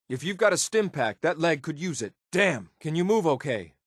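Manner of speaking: wincing, pained concern; hurt and strained. Acted. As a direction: push the words through a fresh wound. Companion wounded in leg.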